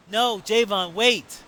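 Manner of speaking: high, loud desperate call. Acted. Janelle calling after Javon as he leaves, loud and high. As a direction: cry out for him to stop. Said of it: "she called out to me".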